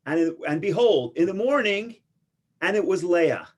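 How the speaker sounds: dramatic reading. Retold or imitated. Reading Torah aloud, dramatic reveal.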